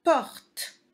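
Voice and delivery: cartes said high and loud, stretched for dictation; named picture word. Shown as a demonstration. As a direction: announce cartes clearly to the class. (mot de dictée, haut et appuyé)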